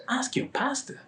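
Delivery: high, whispered disbelief; incredulous echo. Retold or imitated. Inviter echoing the pastor excuse, whispered incredulity. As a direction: whisper it back as a stunned question.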